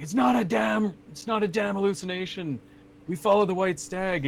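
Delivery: high, strained insistence of a delirious knight; acted exasperated denial; Sturm. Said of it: "And he's like".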